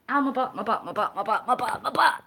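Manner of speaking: chuckling through a chant; laughing. Real, not acted. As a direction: laugh while moaning. Laughing at sore butt.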